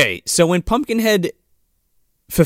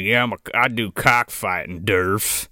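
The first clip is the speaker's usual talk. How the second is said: dim hick voice; 8 semitones lower, 5 dB quieter than usual. Retold or imitated. Mock dim redneck voice.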